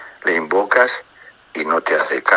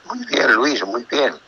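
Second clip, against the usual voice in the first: lightly voiced pleased author, a bit higher; approving author; 4 semitones higher, slower than usual. Retelling the author's reply to his CD request, mildly higher approving voice. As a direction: mimic his warm praise, slightly raised pitch. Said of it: "y me dijo".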